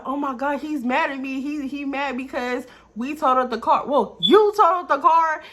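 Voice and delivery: retelling her panic when he would not answer; retold panic. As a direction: replay the frantic worry.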